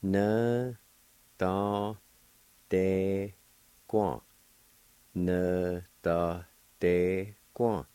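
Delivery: "Na, da, de, guan" said syllable by syllable, "guan" with a falling end; slow syllable-by-syllable demo; Cherokee pronunciation. Shown as a demonstration. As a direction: sound out each syllable of the Cherokee word. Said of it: "It's pronounced like this".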